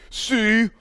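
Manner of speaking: high, blustering caricature with stammering splutters; mock SEC fan. Podcast host mocking SEC people coming out of the woodwork, high spluttering caricature. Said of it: "those people to come back out of the woodwork".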